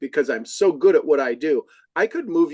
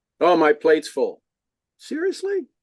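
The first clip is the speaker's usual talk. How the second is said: curious, inquisitive, wondering tone. Showing the right way to deliver a line, curious tone. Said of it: "You got to say it with curiosity in your voice".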